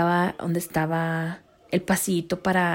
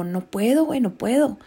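scared; 4 semitones higher than usual. Retold or imitated. Refusing again.

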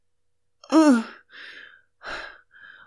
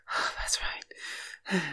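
soft, slow, breathy approval; slow whisper; 9 dB quieter, much slower than usual. Acted. Woman encouraging her lover, slow whisper. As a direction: let the words linger on a breath.

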